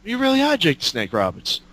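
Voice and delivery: starstruck cop. Retold or imitated. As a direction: gush like a fan meeting his hero. Starstruck cop recognizes Jake.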